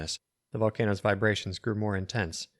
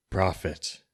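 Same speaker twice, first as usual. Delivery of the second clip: rasping. Acted. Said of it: "the wizard rasped".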